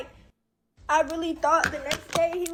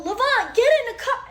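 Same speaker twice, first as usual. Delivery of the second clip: retold yell; 6 semitones higher, 4 dB louder than usual. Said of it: "And I stand up and I go".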